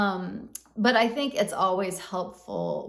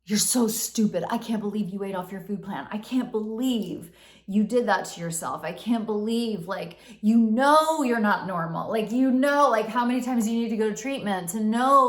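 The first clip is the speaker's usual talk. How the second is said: louder, berating inner critic; scolding persecutor; 3 semitones higher, 4 dB louder than usual. Retold or imitated. Inner persecutor berating her after the slip, louder scolding. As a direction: tear into yourself with contempt.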